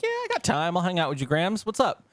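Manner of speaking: bright high yeah, I got time; chirpy agreeable. Retold or imitated. Grandson to grandma, offering to hang out, chirpy. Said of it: "And I'm like".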